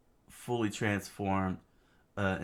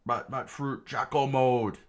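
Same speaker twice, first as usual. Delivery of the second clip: shout; 6 semitones higher, 6 dB louder than usual. Acted. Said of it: "Chaka screamed out".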